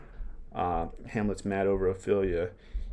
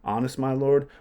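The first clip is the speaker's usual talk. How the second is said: indignant question; 5 semitones higher, 5 dB louder than usual. Acted. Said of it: "Hamlet's genius here".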